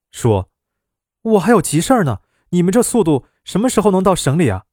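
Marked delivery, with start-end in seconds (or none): 1.2-4.7 fast, higher, irritated nagging; impatient complaint. Acted. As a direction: complain about the crawl, rushing the words. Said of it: "那姑娘火了". (着急地抱怨车速太慢)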